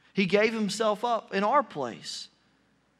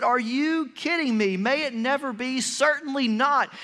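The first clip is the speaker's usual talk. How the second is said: raised, firm and insistent refusal; emphatic rebuke; 4 semitones higher than usual. Retold or imitated. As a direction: rebuke the idea with force. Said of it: "He was very emphatic when he said it".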